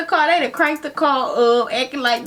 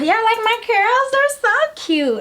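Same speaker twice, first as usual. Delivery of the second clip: preening aside; 10 semitones higher than usual. Real, not acted. Aside admiring her curls.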